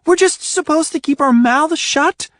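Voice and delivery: high, loud frantic tirade; exasperated rant. A narrator's reading. Ruby ranting at Adrian while pacing, exasperated. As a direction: pace and rant at him.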